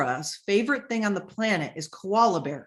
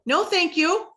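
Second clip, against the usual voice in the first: curt refusal; 9 semitones higher, 4 dB louder than usual. Pretend. Rejecting a pushy sales bot.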